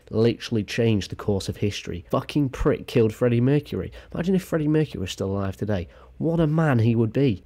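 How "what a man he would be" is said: somewhat raised pitch, admiring; admiring exclamation. Acted. Vlogger imagining a late singer alive, admiring. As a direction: lift the voice a little in admiration.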